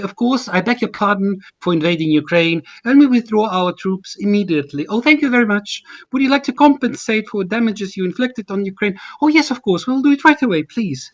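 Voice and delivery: lightly put-on British RP, overdone politeness; mock British RP diplomat. Mocking imagined diplomats at a tea table, light British RP put-on. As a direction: parody a genteel British RP diplomat, not a full accent. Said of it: "in received pronunciation of the British standard".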